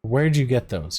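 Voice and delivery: a touch of a gruff guard demanding; mild mock demand. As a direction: watchman snapping at a servant. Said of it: "he demands".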